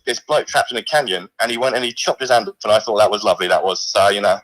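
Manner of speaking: a lightly put-on, weak Australian accent; a mock Aussie bloke voice, barely there; poor Australian accent. A severed hand calls the stream in a poor Australian accent. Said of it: "So you've gone for an Australian".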